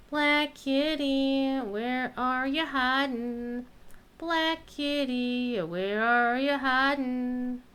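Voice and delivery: slow sing-song call to a kitty; calling a cat. Pretend. Gamer calling a lost kitty, slow sing-song. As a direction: coax the hidden cat out, drawn out.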